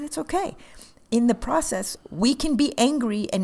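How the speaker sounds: calm her down gently; soothing reassurance. Retold or imitated. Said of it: "And I said".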